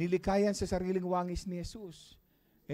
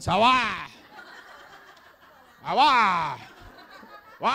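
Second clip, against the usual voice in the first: laughing; 5 semitones higher, 9 dB louder, slower than usual. Pretend. Mock echo of asawa.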